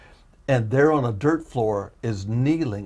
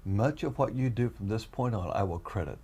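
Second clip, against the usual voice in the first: voice of the Lord; 7 dB quieter than usual. Retold or imitated. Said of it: "I hear the Lord, the Lord saying to me".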